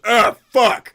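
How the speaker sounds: loud high pained yelp; troll hit on the elbow. Acted. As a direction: yelp as the spoon hits the elbow. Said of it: "he goes".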